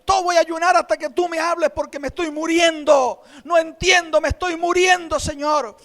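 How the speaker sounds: loud anguished plea, half shouted; desperate crying prayer. Retold or imitated. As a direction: cry out as if dying inside. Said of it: "Y lloré, y lloré".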